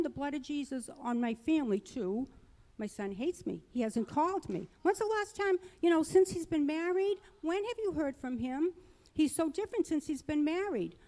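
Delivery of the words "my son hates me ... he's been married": higher-pitched, mildly distraught self-talk; a touch of upset, retold; retold tearful fretting. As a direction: re-enact fretting yourself toward tears. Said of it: "Now I'm crying".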